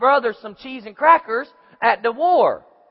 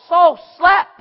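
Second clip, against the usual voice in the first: mock shout; 6 semitones higher, 7 dB louder than usual. Preacher voicing Saul's rebuke.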